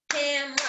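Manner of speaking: "camera" as cam-ra, two beats; two syllables. Shown as a demonstration. Teacher reviewing syllables all together, "camera" as cam-ra. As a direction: clip out the middle vowel of "camera": cam-ra. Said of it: "It's actually two".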